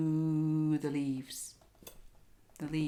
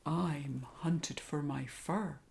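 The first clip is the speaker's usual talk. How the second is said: mournful coyote; 4 dB quieter, slower than usual. Acted. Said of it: "howled Coyote".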